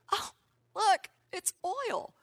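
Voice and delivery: sly hushed whisper, mock-conspiratorial. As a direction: lean in and whisper it like a secret find. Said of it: "he goes".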